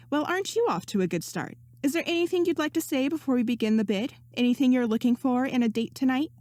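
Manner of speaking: a hint of a chirpy auctioneer; lightly voiced female host. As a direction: lift the pitch a little for the hostess.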